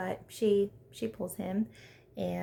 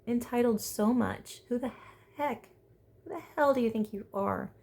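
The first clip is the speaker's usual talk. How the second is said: higher, indignant telling-off; mock indignant rant; 4 semitones higher than usual. Vlogger telling off George for rolling his eyes, indignant. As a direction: scold him like a fed-up friend. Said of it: "I'm just like".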